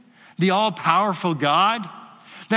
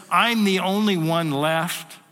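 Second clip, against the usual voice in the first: proud. Retold or imitated. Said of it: "in this sense of pride".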